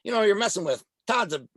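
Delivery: a hint of a cocky little kid; nerdy little kid. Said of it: "sounded like a little kid".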